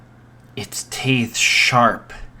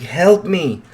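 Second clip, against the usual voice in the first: high, loud desperate yell; terrified shout for help; screaming for help; 9 semitones higher, 5 dB louder than usual. Acted. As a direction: scream it for your life. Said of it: "he screamed his lungs out".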